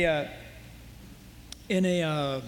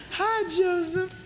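high, slow, drawn-out flirty hello; flirty greeting; 7 semitones higher, slower than usual. Retold or imitated. Potiphar's wife calling to Joseph, high and slow. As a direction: sing it out like a temptress calling.

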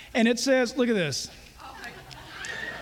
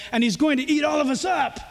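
deep bubbly hippo; 4 semitones higher than usual. Acted. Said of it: "said the hippo".

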